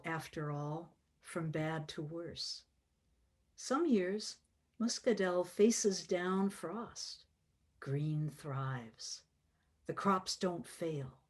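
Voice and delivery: slow, measured poetry reading; poem reading. Acted. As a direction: let each image land with pauses. Reads her poem to the group.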